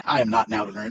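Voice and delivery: lightly pompous suitor; a hint of a self-satisfied clergyman; playing the fool Collins. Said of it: "I'll play the fool here".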